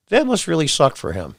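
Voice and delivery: ordinary talk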